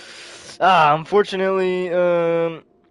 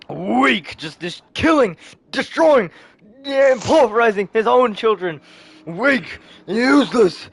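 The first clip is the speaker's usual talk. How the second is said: heated, punched-out contempt; raised, forceful villain rant; scornful outburst; 5 semitones higher, 4 dB louder than usual. Acted. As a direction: spit out each word with acted fury. Villain scorns children, excited narration between.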